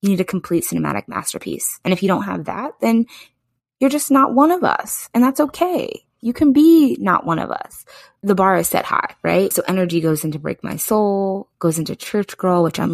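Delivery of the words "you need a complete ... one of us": haughty queen setting the bar; imitating a singer. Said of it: "she's like".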